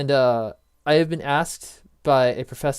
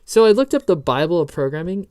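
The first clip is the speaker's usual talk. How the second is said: fake British accent; 3 semitones higher, 6 dB louder than usual. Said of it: "more of an Agent Smith and less of a British accent".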